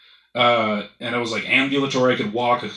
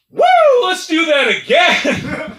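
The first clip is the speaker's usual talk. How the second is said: high, loud whooping cheer; thrilled whoop, stretched out and pitched way up; excited body; 7 dB louder, much slower than usual. Acted. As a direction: yell it like an adrenaline rush. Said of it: "my body was like".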